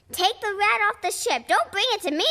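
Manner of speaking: high panicked plea; cried out. Acted. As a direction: beg them to take the rat away. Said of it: "he cried".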